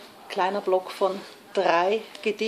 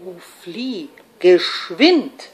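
hushed start bursting into a louder word; dramatic voice of cautioning Reason; urgent warning; 4 dB louder, much slower than usual. Acted. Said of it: "Laut warnte die Vernunft".

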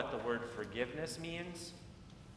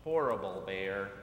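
cross outburst; 5 semitones lower than usual. Acted. Girl stomping, repeating insult.

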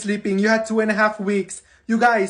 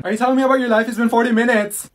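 louder, higher, fed-up rant; exasperated outburst; 4 semitones higher, 6 dB louder, faster than usual. Acted. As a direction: blow up at the rambler. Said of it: "And then I was thinking".

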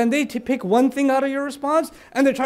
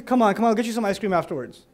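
coaxing nice ask; 3 semitones lower, faster than usual. Shown as a demonstration. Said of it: "It's a nice way to pray".

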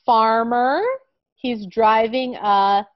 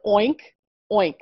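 pig oink. Shown as a demonstration. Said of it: "it's kind of funny to say".

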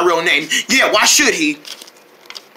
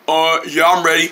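low, mean monster-like voice; deep scary voice; 4 semitones lower than usual. Acted. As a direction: drop it deeper and a little scarier. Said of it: "your voice sounds a little deeper".

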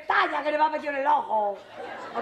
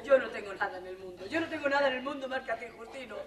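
soft, lowered, broken; hushed, tearful plea; tearful confession; 5 dB quieter than usual. Acted. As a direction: pour it out quietly to him. Desperate confession to Justino.

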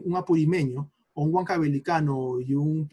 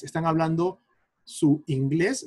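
ordinary talk

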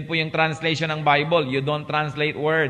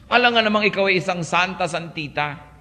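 1 sarcastic; 3 semitones higher than usual. Retold or imitated. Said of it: "Sabihin nyo nga sa katabi nyo yan".

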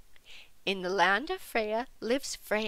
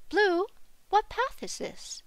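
high, questioning call to a companion; 10 semitones higher than usual. A narrator's reading. Freya calls to Blue, calling out high. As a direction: call over in a much higher voice. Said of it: "Freya called to Blue".

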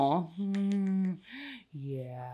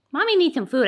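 mock whiny; 7 semitones higher, 7 dB louder, faster than usual. Real, not acted. Speaks of herself as Mommy.

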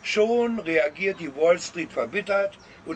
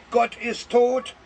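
a half-hearted, slow, higher cry of Gott ist tot; mock outcry; 6 semitones higher, 3 dB louder, slower than usual. Listener tempted to scream out loud, mild mock cry. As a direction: pretend to yell it out in protest. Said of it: "laut herausschreien".

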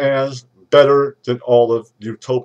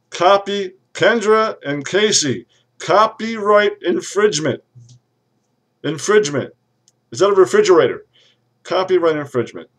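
higher, louder indignant outburst; heated rant; 7 semitones higher, 4 dB louder than usual. Acted. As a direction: sputter out the accusation. Ranting about copyright.

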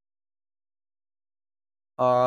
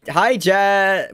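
excited greeting; 5 semitones higher, 6 dB louder than usual. Real, not acted. Greets raider loudly.

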